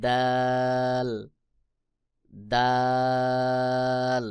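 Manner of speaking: দাল very drawn out, tongue tip at teeth roots; letter demonstration. Shown as a demonstration. Teacher models the letter dal, দাল stretched long. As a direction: hold the vowel of দাল on one note. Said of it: "জিহ্বার আগা সামনের উপরের দুই দাঁতের গোড়ার".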